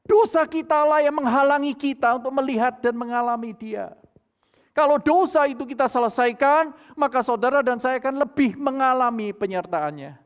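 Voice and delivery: loud, rising sermon appeal; a preacher pressing the congregation; forceful preaching. Acted. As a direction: drive the point home from the pulpit.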